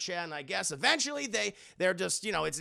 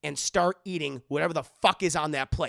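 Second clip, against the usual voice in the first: mock scolding; 5 dB louder than usual. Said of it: "She's like".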